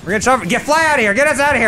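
frantic high yell; panicked shout. Real, not acted. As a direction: scream to get away. Under fire in helicopter.

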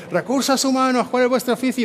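high, hammed-up war-leader call; Leónidas battle shout. Speaker to the HR audience as Leónidas, a mock battle cry. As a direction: call out to your troops like a Spartan king. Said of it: "voy a gritar ahí como Leónidas".

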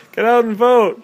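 high, loud holler called out in passing; mock yell. Spider-Man yelling at people as he swings by, mock yell. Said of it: "he just yells out".

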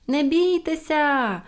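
high, long-drawn call. A narrator's reading. Pippi to frightened policemen on the roof, calling out. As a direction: call across the roof, stretching the vowels. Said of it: "гукнула їм Пепі".

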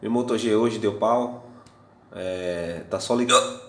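talking through hiccups; speech broken by hiccups. Real, not acted. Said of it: "Desculpa que eu tô com soluço". (falando com soluço)

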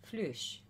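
"flush" with a long oo; floche said as "floosh". Shown as a demonstration. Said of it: "it's pronounced".

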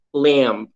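"Lamb" with the M held and no B; prolonged final M. Shown as a demonstration. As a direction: hold the closing M of "Lamb", leaving the B silent. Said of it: "Fica um M mais prolongado no final". ("Lamb" com o M final prolongado e o B mudo)

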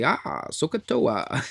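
slow, high karate battle cry; Sokotoa, a martial arts war cry; mock karate cry. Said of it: "ready to fight somebody and do some karate".

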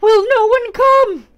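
high, slow, very loud plea; desperate cry. Acted. Struggling victim pleads for rescue, drawn-out desperate cry. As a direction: cry out for someone to save you. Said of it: "it cried".

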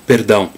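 "perdão" with a quick tapped r; southern flapped R. Shown as a demonstration. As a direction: tap the r in "perdão" with the tongue tip. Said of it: "in southern dialects with perdão".

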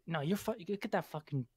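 low, irritated put-down; acted irritation, building; mock angry rant. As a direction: berate him as an offended film star. Acted angry celebrity berating the interviewer.

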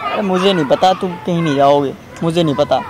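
crying. Real, not acted. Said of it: "रो मत".

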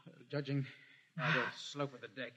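soft, low careful voice; hushed. Acted. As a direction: keep it down while sneaking. Hushed while hiding.

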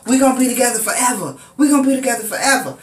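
imitating him lashing out, rushing the words; angry threat. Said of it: "And he's like".

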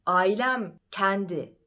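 "kendi" said "kændi" with an open E; "kendi" with a broad back open E; family's open E. Retold or imitated. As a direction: imitate the family saying "kendi" with a wide jaw.

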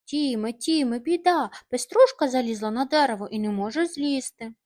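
calling out. Acted. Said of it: "закричав".

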